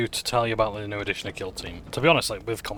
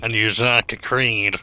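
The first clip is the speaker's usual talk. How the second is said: slow, louder Yorkshire-tinged line; Yorkshire accent; 2 semitones higher, 11 dB louder, much slower than usual. Retold or imitated. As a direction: drag the words out in a Yorkshire lilt. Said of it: "Sounds a bit Yorkshire".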